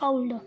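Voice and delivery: ओल्ड as a-uld, gliding from a to u; teacher's clear ओल्ड with a diphthong; correct pronunciation demo. Shown as a demonstration. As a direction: show ओल्ड with an open au glide. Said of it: "इसको बोलते हैं ओल्ड".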